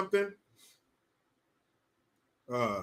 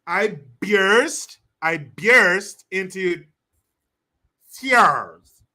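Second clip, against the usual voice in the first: slow, louder mocking imitation of a fake-crying actress; 6 dB louder, much slower than usual. Streamer mocking an actress's fake crying, slow and hammed-up. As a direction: ham up the fake tears. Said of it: "That's how you talk like these fucking idiots".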